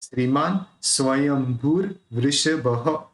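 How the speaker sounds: स्वयंभूर with the r after भू, slowly; slow demo of स्वयंभूर वृषभः; slow Sanskrit recitation; careful recitation. Shown as a demonstration. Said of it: "रेफ बोलना है, फिर वृषभः".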